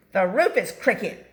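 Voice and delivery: loud snappish complaint; snapping. A narrator's reading. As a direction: snap the fault out. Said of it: "snapped Bean Snap".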